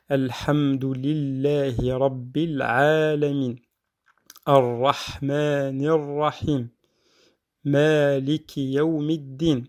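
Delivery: Alhamdulillahi Rabbil Alamin recited slowly and evenly; slow recitation. Shown as a demonstration. Teacher reciting Al-Fatiha for students, slow recitation. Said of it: "recites next verses".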